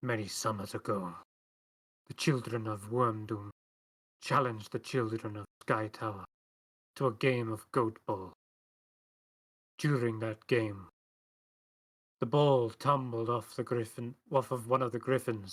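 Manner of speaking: hissed whisper through gritted teeth. Voicing a woman speaking while the allies are out of earshot: whispering through gritted teeth. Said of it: "she whispers almost under her breath, more like gritting her teeth".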